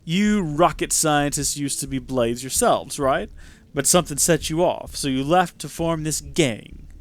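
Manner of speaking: low, drawn-out and condescending; lightly voiced smug hero. Self-styled hero sneering at a street gang, lightly voiced and smug. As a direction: look down on the thugs, unhurried.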